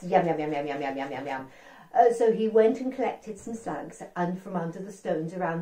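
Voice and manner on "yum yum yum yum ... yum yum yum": yum yum relish. Acted. Frog relishing slugs.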